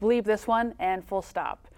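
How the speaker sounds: ordinary talk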